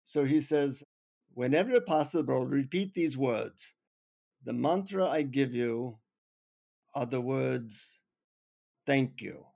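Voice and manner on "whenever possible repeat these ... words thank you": put-on slow, measured Indian accent. Guru hands over the secret mantra, in a slow Indian accent. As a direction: imitate a guru speaking slowly in an Indian accent. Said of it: "in his Indian accent".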